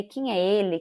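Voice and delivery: normal talking voice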